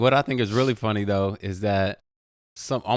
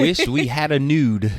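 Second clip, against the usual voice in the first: laughing; 4 semitones higher, slower than usual. Acted. Mispronouncing 'known' as nude, laughing.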